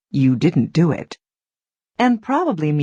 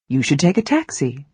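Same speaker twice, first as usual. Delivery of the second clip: firm advice; 2 semitones lower, faster than usual. Shown as a demonstration. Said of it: "That is definite, clear, and strong advice".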